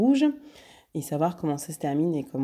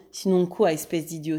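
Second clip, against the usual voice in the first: mocking retort. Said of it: "s'écria Lupin".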